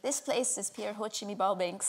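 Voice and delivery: put-on softly copying a Scottish accent; imitated Scottish accent. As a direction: try the phrase back in Scottish, softly. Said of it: "I tried a Scottish phrase on her".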